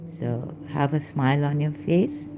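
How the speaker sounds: ordinary delivery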